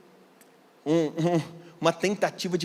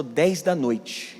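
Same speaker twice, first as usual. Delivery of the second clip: ominously slow; much slower than usual. Retold or imitated. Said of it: "Já tá esquisito".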